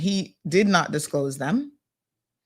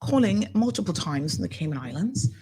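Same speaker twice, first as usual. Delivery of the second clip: lightly voiced office woman returning a call; retold phone caller, pitched up at first; imitating London office worker; 4 semitones higher than usual. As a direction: start high, then ease down, as a quoted caller. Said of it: "She's like".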